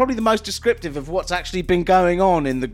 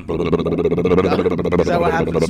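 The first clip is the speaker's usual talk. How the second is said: low mocking voice; 12 semitones lower than usual. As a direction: drop low and drag it out.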